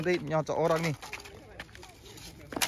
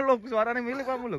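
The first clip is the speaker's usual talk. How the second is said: laughing; 5 semitones higher, 5 dB quieter than usual. Real, not acted. Same remark repeated with a laugh.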